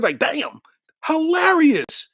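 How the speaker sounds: hushed amazement; awed whisper. Real, not acted. Whispers in awe at Don Cheadle's joke. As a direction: whisper it, drawn out on hilarious.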